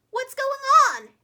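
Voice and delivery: high, loud pig asking; curious pig. A narrator's reading. Pig asking what the laughter is about, high and loud. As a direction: ask like a puzzled pig. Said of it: "asked the pig".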